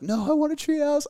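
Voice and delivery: put-on high-pitched toddler wail; mock crying. Dad retelling daughter's tree house meltdown, mock crying. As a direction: imitate a tearful little girl's protest.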